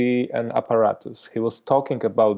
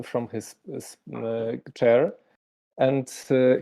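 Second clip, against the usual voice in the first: normal talking voice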